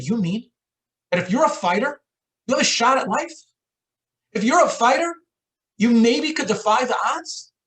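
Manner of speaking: high-pitched, rising questions of dawning hope; impassioned questioning. Retold or imitated. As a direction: question it urgently, voice lifted high. Patient acts out sudden stunned hope.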